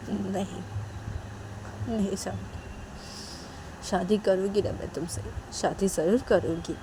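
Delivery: soft-spoken, gentle promise; lightly acted tender vow; tender reassurance. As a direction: reassure a loved one quietly. Riya gently promises to marry her.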